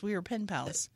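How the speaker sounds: soft unvoiced whisper. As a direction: breathe it out. Whispered dream line.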